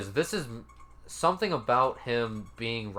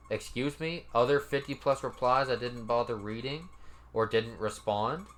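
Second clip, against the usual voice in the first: disbelieving questions, each rising at the end; mock-disbelieving read-back with rising endings; incredulous echo. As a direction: throw the words back as an offended question. Incredulous echo of the quoted reply.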